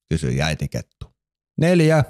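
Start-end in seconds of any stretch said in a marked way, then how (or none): 1.6-2.0 put-on eager child shouting the answer to Mother Fox; accidental shout. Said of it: "vastasi Elli vahingossa huutaen".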